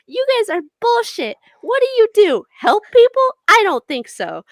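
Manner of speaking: loud ranting goblin, building fury; angry rant. Acted. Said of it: "still going on this, like, rant of".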